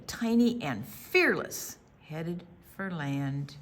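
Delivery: put-on gentle read-aloud narration for kids; story narration. A narrator's reading. Librarian reading to children, gentle storytelling voice. Reads picture book aloud.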